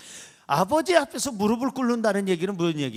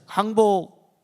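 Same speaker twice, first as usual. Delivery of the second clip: louder, drawn-out prompt; call for repetition; 5 dB louder, much slower than usual. Shown as a demonstration. Pastor leading congregation in repeat-after-me, firm call. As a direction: call it out for others to echo. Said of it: "따라하세요".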